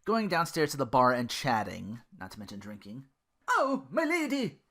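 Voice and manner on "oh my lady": high, slow wail; high drawn-out lament to his lady; wailing Duke. Acted. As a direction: wail it out like a lovesick squire. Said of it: "Duke wailed".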